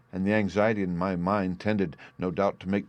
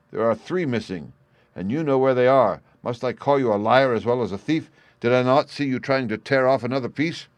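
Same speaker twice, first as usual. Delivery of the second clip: louder, higher accusing rant; furious; 4 semitones higher, 6 dB louder than usual. Acted. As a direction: call him a liar to his face. Father confronts lying son.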